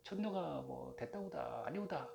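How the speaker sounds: a hint of Jeju islander speech; Jeju dialect. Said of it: "제주도는". (가볍게 흉내 낸 제주 사투리)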